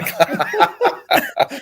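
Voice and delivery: high burst of laughter. Real, not acted. Laughs at own housework joke.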